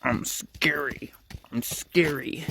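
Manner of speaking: slow whispered self-psych-up; whispered pep talk. Retold or imitated. Jessica whispers to herself before facing the driver. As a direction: hush it to yourself to get brave.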